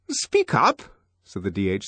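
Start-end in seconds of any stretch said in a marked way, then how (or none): 0.1-0.8 brisk DHC. Acted. DHC urging a shy boy.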